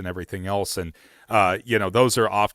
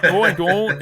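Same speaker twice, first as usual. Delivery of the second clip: higher, louder mock protest; 9 semitones higher, 6 dB louder than usual. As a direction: act the friend refusing, hammed-up.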